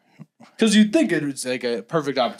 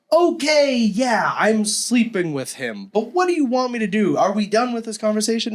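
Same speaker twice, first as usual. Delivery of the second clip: mock nonchalant; 8 semitones higher than usual. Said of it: "so nonchalant".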